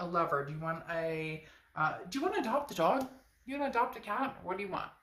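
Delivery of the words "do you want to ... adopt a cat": playful. Real, not acted. Quick high joking questions.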